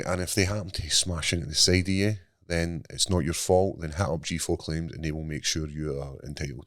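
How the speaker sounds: ad read. Acted. Sponsor ad read.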